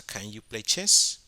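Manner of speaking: muy lento y algo más fuerte; Can you play chess, palabra por palabra; pregunta modelo lenta. Shown as a demonstration. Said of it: "pasamos a". (profesora dicta la pregunta modelo, lenta)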